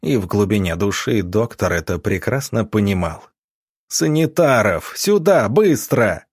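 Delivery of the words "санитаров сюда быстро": high, urgent shout for help; raised, frantic call; desperate yell. A narrator's reading. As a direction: yell for orderlies towards the door. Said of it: "закричал он в сторону дверей".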